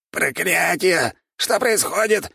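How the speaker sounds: high squeaky panicked cry; squeaking rat lord. A narrator's reading. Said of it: "пропищал владыка".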